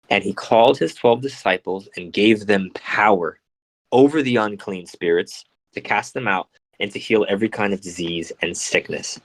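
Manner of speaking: measured reading from a holy text; scripture reading. Acted. Reading the gospel to listeners, measured scripture reading. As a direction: read it out evenly, phrase by phrase.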